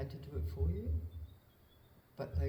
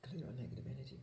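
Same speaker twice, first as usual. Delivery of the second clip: soft early-morning whisper to Spirit; whispered prayer; 6 dB quieter, faster than usual. Real, not acted. Praying alone on the hill at dawn, whispered. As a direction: breathe the plea out in a whisper. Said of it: "I'm whispering because it's early morning".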